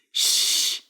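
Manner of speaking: sharp whispered shush; hushing. Acted. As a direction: hush him quickly. Peter hushes the priest.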